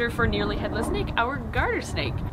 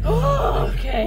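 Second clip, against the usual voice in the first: surprised; 11 semitones higher, 5 dB louder, slower than usual. Real, not acted. Car finally starting in winter.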